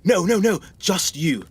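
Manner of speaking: loud, urgent no's; frantic protest; panicked shout. Acted. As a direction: stop him before he calls anyone. Visitor stops him calling others.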